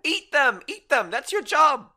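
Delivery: insistent high shout, hammering each phrase; shouted order. Acted. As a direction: yell it like goading on a fighter. Player orders gnome to attack.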